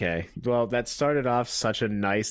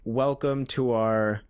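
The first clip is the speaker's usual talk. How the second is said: dictated line; 4 semitones lower, much slower than usual. Shown as a demonstration. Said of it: "I want you to say".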